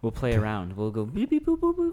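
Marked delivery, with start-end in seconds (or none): 1.3-1.9 high beeping noises; robot beeps. Retold or imitated. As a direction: imitate electronic beeps. Imitating amp noises.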